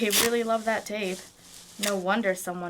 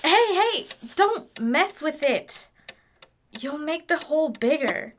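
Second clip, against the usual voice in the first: sharp warning; 6 semitones higher than usual. Acted. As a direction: snap out a quick warning to keep hands off. Charlie stops Tango poking it.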